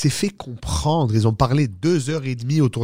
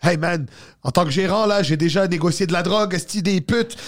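higher-pitched incredulous protest, retold for laughs; mock indignant comeback; retold exasperated manager; 5 semitones higher than usual. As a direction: imitate a manager drawing the line, pitched up. Retells his manager's outraged reply.

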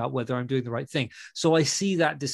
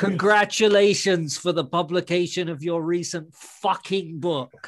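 shaking with anger; 5 semitones higher, 4 dB louder, slower than usual. Retold or imitated. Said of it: "typing out on the Facebook through gritted teeth".

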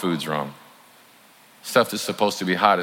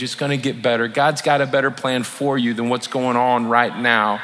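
encouraging. Shown as a demonstration. Parent encouraging their struggling teen, warm and affirming. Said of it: "And so you tell them".

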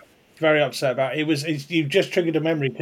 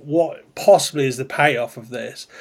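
puzzled inner thought; slower than usual. Retold or imitated. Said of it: "And you think".

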